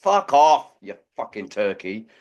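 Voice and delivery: loud outburst then dropping off; swearing tirade. Retold or imitated. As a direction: snap at a lazy worker. Swearing at lazy officer.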